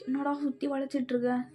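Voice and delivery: unvoiced hiss at himself; exasperated whisper to himself; whispered self-scolding. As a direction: urge yourself on under your breath. Scolding himself inside his head.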